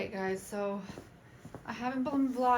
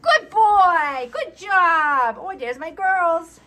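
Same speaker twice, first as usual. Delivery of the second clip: high cooing pet praise; talking to a dog; 8 semitones higher, 8 dB louder, slower than usual. Real, not acted. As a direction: gush over the dogs. Praising dogs.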